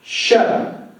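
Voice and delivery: mock-exhausted retort, trailing into a voiceless breath; winded, irritated brush-off. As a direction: act out a worn-out teen, half-hearted. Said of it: "glares at him in exhaustion".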